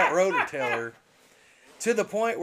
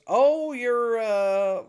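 lightly mocked mother, higher and louder; a hint of aggrieved mother, raised voice; mother's complaint; 6 semitones higher, 6 dB louder, much slower than usual. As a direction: imitate Mom starting a complaint, pitched up. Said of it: "My mother goes".

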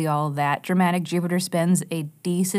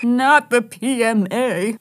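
mock terror; 3 semitones higher, 4 dB louder, slower than usual. Mock horror at positive attitude.

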